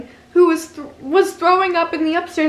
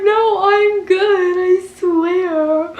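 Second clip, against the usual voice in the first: louder, slow, high insisting; drunk insisting; 5 semitones higher, 7 dB louder, much slower than usual. Retold or imitated. Refusing the friend's mother, slow and loud. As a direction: slur out a stubborn denial. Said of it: "I was like".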